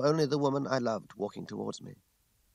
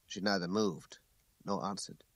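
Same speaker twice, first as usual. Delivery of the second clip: ordinary delivery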